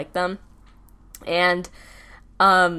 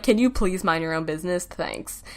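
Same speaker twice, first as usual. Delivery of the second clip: passive-aggressive. Retold or imitated. Telling freshmen to leave her alone, passive-aggressive. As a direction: retell a politely prickly brush-off. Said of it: "kinda passive-aggressive".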